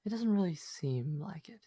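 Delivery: eerie hushed whisper. Acted. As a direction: breathe it out like a secret. Mysterious voice whispers to character.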